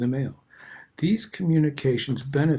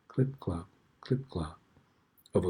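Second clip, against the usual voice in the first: softer and lower each time; fading away; 5 semitones lower, 7 dB quieter than usual. Shown as a demonstration. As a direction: let the hoofbeats fade into the distance. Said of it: "in the muffled distance".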